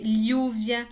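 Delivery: "lluvia" slowly with a gliding ly onset; regional variant. Shown as a demonstration. Teacher contrasting regional accents, demonstrated pronunciation. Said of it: "cada região em espanhol também fala de um jeito diferente".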